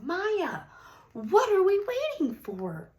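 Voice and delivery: loud, high shout over engine noise. Acted. Ralph shouting to Maya over the roaring engines, loud and high. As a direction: yell it across the racetrack. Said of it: "Ralph shouted over the roaring engines".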